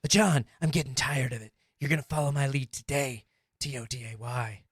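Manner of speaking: a hint of a stern martial-arts star scolding; calm, menacing tough guy, lightly done; Steven Seagal impression. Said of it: "I'm definitely going to be Steven Seagal".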